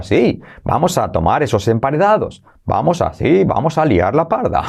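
lightly voiced cartoon bear, sing-song; bouncy up-and-down cartoon tune; a hint of Yogi Bear. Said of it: "el oso yogi ... hablaba así".

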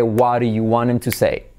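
linked "What do you wanem", with a clear t in "to say"; T pronounced. Shown as a demonstration. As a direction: reduce "want him" but keep the t of "to". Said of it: "aquí vamos a pronunciar la T".

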